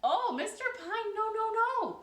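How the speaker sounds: breezily brushing off his complaint; neighbor, high and loud; neighbor reassuring. A narrator's reading. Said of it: "the neighbor said".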